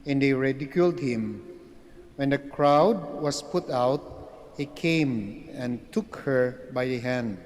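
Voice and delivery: solemn, measured scripture reading; gospel reading. Acted. Priest proclaims the gospel reading.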